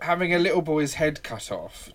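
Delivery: talking through real laughter; can barely get the words out for laughing. Real, not acted. Mocking his priorities over a beheading, laughing.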